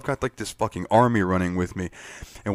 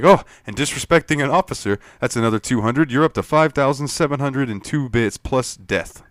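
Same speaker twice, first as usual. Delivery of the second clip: mock officious cop voice, raised and louder; smug officer; 5 semitones higher, 4 dB louder than usual. Guard to player, smugly adding fines, officious mock voice. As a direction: play the petty officer piling on fines. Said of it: "And he's like".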